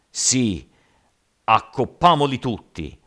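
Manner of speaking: loud, high bloodthirsty shout; yelling mob. A narrator's reading. Rioters backing the giant's threat, yelling. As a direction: yell it as a whole crowd. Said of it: "urlarono in coro gli altri".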